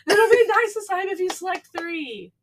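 high sweet coax breaking into laughs; laughing coax. Retold or imitated. Little sister coaxing Hannah again, laughing through it. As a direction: try to sound innocent while cracking up.

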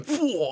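high, impressed whoosh; comic noise of admiration at tea; awed exhale. Acted. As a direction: blow out a mock-amazed "phew". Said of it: "looking at tea going".

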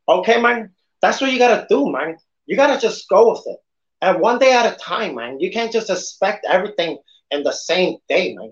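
lightly done Tony Montana tough guy; a hammed-up Scarface impression. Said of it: "my Scarface voice".

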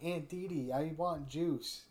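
put-on slow drawn-out childish whine; whiny demanding kid. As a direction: stretch it out like a spoiled kid asking. Voicing the niece Angelica.

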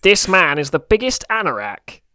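lightly nasal TV presenter impression; a hint of a pinched-nose Jeremy Clarkson; nasally Clarkson voice. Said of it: "I'm doing a very nasally voice".

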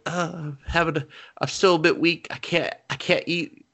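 a faint, put-upon voice turning down food; weak invalid. Retold or imitated. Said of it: "and he's like".

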